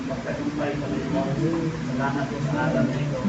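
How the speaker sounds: subdued, steady congregational prayer; settled pastoral praying; earnest prayer. Real, not acted.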